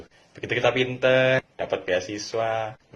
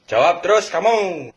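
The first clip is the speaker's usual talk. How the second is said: a louder, slow scolding parent; slow nagging parent, a bit louder; 5 semitones higher, 7 dB louder, slower than usual. Retold or imitated. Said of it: "nanti ortu gue bilang".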